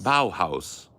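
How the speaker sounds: BAUHAUS echoed as bow-house, both halves clear; copied German pronunciation. Shown as a demonstration. Copying Google's translation, German pronunciation. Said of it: "how Google translates as it's supposed to be said in German".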